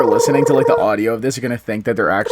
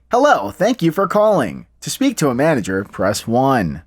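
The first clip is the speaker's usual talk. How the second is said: robot phone voice; slower than usual. Retold or imitated. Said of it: "that voice that Steve does".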